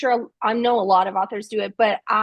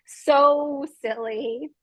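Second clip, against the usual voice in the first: laughing; 3 semitones higher, much slower than usual. Real, not acted. Laughing at own clumsiness.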